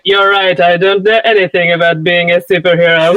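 a hint of a cocky billionaire confiding; understated suave swagger; Tony Stark impression. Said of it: "I'm not gonna do a terrible accent".

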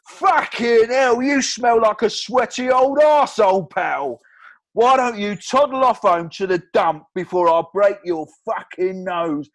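put-on loud, slow drunken abuse; drunk Stu. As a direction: growl insults like a pub drunk. Drunk Stu insulting Chris.

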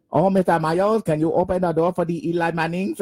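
mangled mock Korean accent on Mayo; butchered Korean accent. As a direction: ham up a botched Korean accent. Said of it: "just butchered".

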